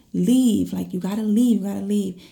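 emphatic mock command to get out; retold firm order. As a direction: order a stranger off, starting loud. Ordering the intruder away, retold.

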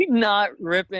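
high, strained grunt-like delivery; straining to rip a shirt. Retold or imitated. Mimicking Tyson struggling with shirt.

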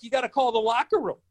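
high-pitched retold plea; losing it. Rookie demanding the usher phone the locker room, losing it. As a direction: insist with the voice pushed up. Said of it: "I've lost it now".

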